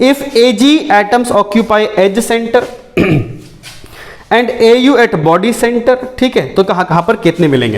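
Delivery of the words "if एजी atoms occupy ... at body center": slow, drawn-out reading with held word endings; question read-out. Real, not acted. Teacher reading an exam question to students, slow read-out. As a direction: read it slowly, stretching key words.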